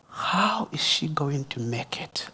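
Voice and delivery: slow, near-whispered worried question; hushed concern. Real, not acted. Pastor wondering how the lone mother will cope, hushed concern. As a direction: drop to a slow, soft whisper.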